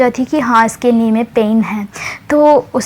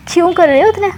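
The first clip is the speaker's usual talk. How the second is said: higher-pitched gentle scolding; caring scolding; 6 semitones higher than usual. Retold or imitated. Friend gently scolding the angry girl, higher and caring. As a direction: fuss over her like a worried elder sister. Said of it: "ऐसे वो पूछती है".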